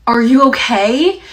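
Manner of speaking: loud, slow, high call into the distance; imitated yelling. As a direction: stretch it out like dad shouting afar. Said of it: "started yelling off into the distance".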